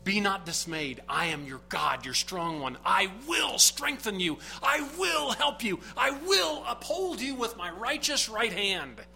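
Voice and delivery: scripture recited. Acted. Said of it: "verses like Isaiah forty-one ten says".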